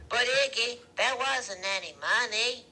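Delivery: high, loud woman's protest; Loretta protesting. A narrator's reading. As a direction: plead back at him, high and loud.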